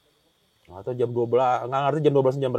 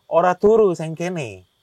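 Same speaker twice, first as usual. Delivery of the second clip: louder retold command in Javanese; mock stern order; 3 semitones higher, 10 dB louder, slower than usual. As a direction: give a sudden, mildly forceful order. Sosok gaib membangunkan si pencerita. (menirukan perintah keras)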